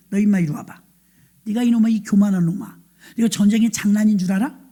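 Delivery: mildly heated picking of a fight; acted scolding. Eldest brother berating young David at the front, scolding. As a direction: build slightly into an older brother's telling-off. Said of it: "막 시비를 걸어요".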